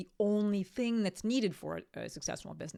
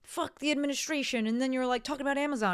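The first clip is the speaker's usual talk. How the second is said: mock an outraged commenter catching a contradiction; a lightly voiced huffy YouTube critic; indignant critic; 6 semitones higher than usual. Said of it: "someone can watch it and be like".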